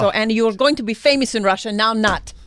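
put-on hammy Russian villain accent. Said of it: "Russian spy".

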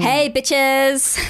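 ditzy friend voice. Acted. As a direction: burst in like a try-hard friend. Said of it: "being the girl who's just been rank".

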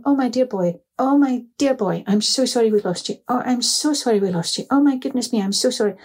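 a father pouring out relief and apology; relieved father. Retold or imitated. Lost boy's father to his son, relieved and apologetic, lightly voiced.

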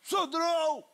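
high, slow calling-out of "Sandrão"; imitating a singer shouting a name; retold shout. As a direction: call across the street, drawn out. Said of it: "Gritando aqui assim".

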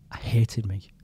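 breathless whisper, barely voiced; whispered confession. Real, not acted. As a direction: whisper it as a painful admission. Confessing his past self-hatred.

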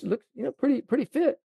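very high, admiring caddy voice; imitating Scottish caddy. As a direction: pipe it up high like the impressed caddy. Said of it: "the way he said it".

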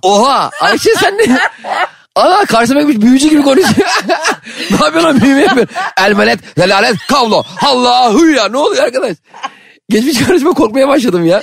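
high-pitched, laughing in disbelief; excited laughing. Real, not acted. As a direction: laugh while half-spooked. Laughing, spooked by the reversed words.

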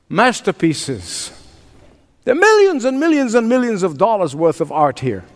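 outraged collectors who came a long way; a hint of furious bidders; angry disbelief. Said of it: "In such anger and frustration, disbelief".

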